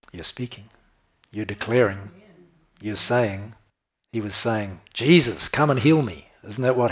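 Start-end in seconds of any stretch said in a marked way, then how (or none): 4.9-6.3 crying out. Retold or imitated. Blind man crying out.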